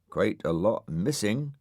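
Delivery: dark, brooding murmur; darkly. Acted. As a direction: say it with grim suspicion. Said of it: "said Dougal darkly".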